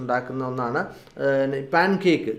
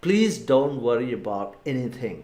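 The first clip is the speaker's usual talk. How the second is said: slow repeat; 3 semitones lower, much slower than usual. Shown as a demonstration. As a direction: repeat it slowly and gently for learners. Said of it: "ഒന്നുകൂടെ പറഞ്ഞു നോക്കാം".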